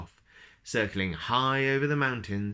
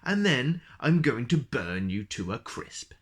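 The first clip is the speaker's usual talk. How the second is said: dragon bellowing; 2 semitones higher than usual. Acted. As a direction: boom the threat at him. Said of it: "bellowed the dragon".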